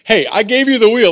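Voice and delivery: high, loud protest; acted-out indignant complaint; exasperated plea. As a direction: protest as if to someone asleep on the job. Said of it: "you feel like Jesus is asleep".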